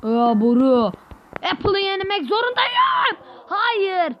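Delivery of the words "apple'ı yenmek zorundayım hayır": shouted, drawn out and slower; raised, slow frustrated yell. Real, not acted. Gamer shouting at the game.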